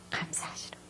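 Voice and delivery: soft whisper. Retold or imitated. Wife whispering thanks while leading her husband out, whisper. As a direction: breathe it to him quietly.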